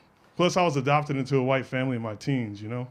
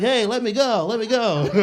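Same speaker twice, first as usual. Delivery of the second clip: high-pitched mock struggle; pleading to be released; 7 semitones higher, 3 dB louder than usual. Adopted father caught in a noogie, pleading.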